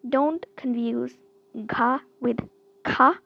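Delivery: ga then a punched ka; G versus K contrast. Shown as a demonstration. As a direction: set ga against a crisp ka. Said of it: "this is a G sound and this is a K sound".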